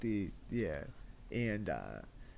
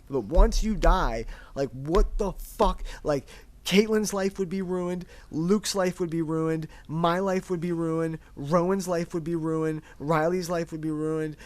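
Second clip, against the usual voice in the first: insistent raised-voice pleading without real sobs; emphatic, higher-pitched retelling of a distraught plea; retold bawling plea; 4 semitones higher, 4 dB louder than usual. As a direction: list each ruined life, pressing the point. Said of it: "but, like, bawling, crying".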